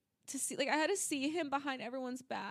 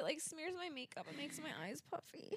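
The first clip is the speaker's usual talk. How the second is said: tearful; 11 dB quieter than usual. Real, not acted. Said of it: "I hate crying".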